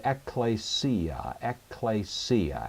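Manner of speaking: ecclesia said slowly as ek-klay-SEE-ah, stress on SEE; stress on penult. Shown as a demonstration. Teacher modelling the next word, ecclesia accented on the penult, ek-klay-SEE-ah. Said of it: "accent on the penult".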